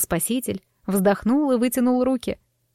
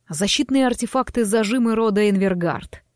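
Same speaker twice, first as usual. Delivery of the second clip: calm. Acted. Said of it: "пояснил Вейлон спокойно".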